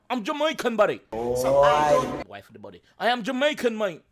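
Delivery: hammed-up English accent; playful English accent; mock English accent. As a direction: tease the commenters in an English accent. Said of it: "say me sound like English".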